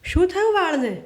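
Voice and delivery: high, startled outcry; shocked cry. A narrator's reading. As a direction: gasp it out in shock. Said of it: "હું ચીસ પાડી ઉઠી". (ચોંકીને ઊંચા સાદે ચીસ)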